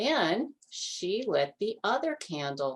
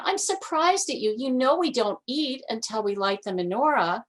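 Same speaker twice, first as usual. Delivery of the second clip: much higher, mock-stern grandmother; high scolding granny; 6 semitones higher, 4 dB louder, faster than usual. A narrator's reading. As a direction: tut at him like a fussy granny.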